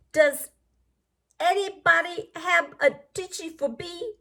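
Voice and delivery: stuffy, mixed-up little flea talking; garbled flea voice. Acted. Teacher voicing the sick flea, lightly garbled and stuffy. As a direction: mumble it like a blocked-up flea. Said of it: "Did you hear how he was talking?".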